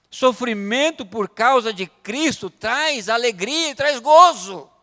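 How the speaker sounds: loud, slow, high preaching cry; slow, forceful sermon declaration; emphatic preaching. Real, not acted. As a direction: proclaim it to the congregation, stretching the key words. Preaches main point at full force.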